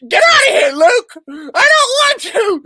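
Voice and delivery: mock squabble. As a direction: shove Luke off with a whine. Puppet squabbling with Luke.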